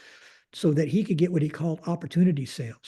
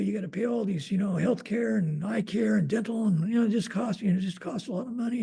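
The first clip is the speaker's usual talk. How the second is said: lightly voiced higher subordinate making excuses; a hint of a respectful, higher-pitched excuse-maker; polite employee; 4 semitones higher than usual. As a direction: imitate a polite employee explaining to the boss, pitched up. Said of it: "he was a really polite gentleman".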